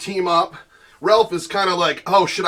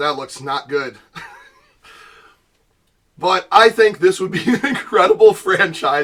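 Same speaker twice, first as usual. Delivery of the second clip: speaking while laughing throughout. Looking at their own superhero costume, laughing while talking. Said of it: "I can't stop laughing".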